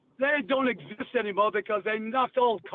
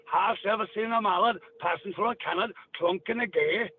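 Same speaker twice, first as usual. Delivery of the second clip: odd dialect verse, Gaelic lilt; Gaelic-style Cornish; 3 semitones lower than usual. Shown as a demonstration. Demonstrating a weird old language, Gaelic-style dialect. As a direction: recite a riddle in Gaelic-tinged dialect. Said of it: "listen to the Gaelic".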